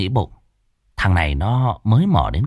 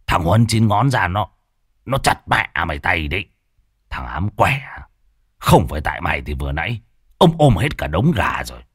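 scolding; 4 semitones lower than usual. Acted. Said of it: "Lão Thọt vừa chửi".

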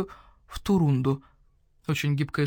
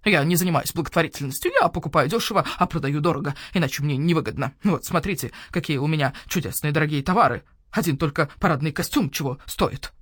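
owl shopkeeper voice; 2 semitones lower than usual. Acted. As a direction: voice the grumpy owl merchant. Owl refuses.

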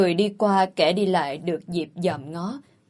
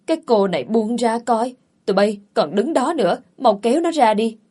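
annoyed, raised voice; exasperated demand, getting louder; irritated command; 3 semitones higher, 4 dB louder than usual. Acted. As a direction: order the servants sharply to remove her. Orders servants to pull her off.

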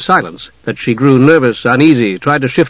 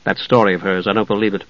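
confidential doubt; 4 semitones lower, 5 dB quieter, faster than usual. Acted. Dalamar confides doubts to Jenna.

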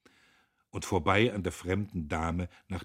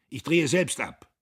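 loud, raised-pitch call; 8 semitones higher, 10 dB louder than usual. A narrator's reading. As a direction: shout it over to a workman. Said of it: "rief er dem Maschinenmeister zu". (laut zurufend)

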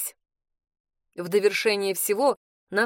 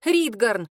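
angry rebuke; 3 dB louder than usual. Acted. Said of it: "гневно одёрнула я его".

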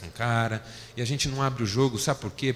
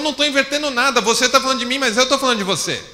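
retold heated reply; 12 semitones higher, 7 dB louder, faster than usual. Wife's side of retold quarrel.

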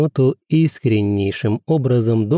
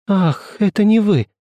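a sudden high cry of relief; exclaimed with rising pitch; exclaiming; 8 semitones higher than usual. A narrator's reading. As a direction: burst out, pitch jumping up. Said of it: "воскликнула Жюли".

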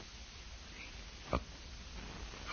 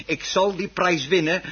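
traag, hoger en harder nadrukkelijk; vastberaden belofte; 8 semitones higher, 5 dB louder, slower than usual. Acted. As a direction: zet elk woord als een eed neer. Man zweert vastberaden. (man zweert traag en luid dat hij wint)

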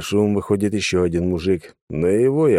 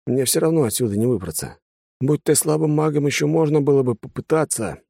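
resigned sigh; 7 semitones higher than usual. A narrator's reading. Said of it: "вздохнул он".

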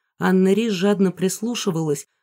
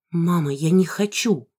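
plain reading voice

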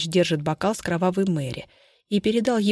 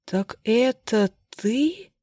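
near tears; 4 semitones higher, much slower than usual. Acted. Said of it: "чуть не плача спросил Андрей".

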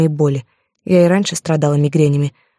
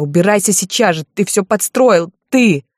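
screaming; 3 semitones higher than usual. Acted. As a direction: lose control as the blame builds. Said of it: "выкрикнула я".

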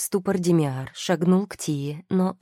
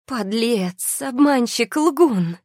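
high, loud accusations, rising with each word; furious, choking with rage; 7 semitones higher, 5 dB louder, much slower than usual. A narrator's reading. Тия bursts in on her husband, furious. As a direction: hurl each word higher and louder. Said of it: "Тия задыхалась от ярости".

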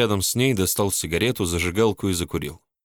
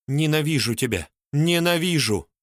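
high wailing, pitched up; howling hatred; 7 semitones higher than usual. A narrator's reading. Polina howls hatred at Mark while slapping him. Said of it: "выла она".

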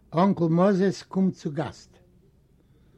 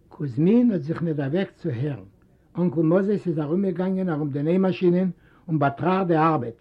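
ordinary delivery

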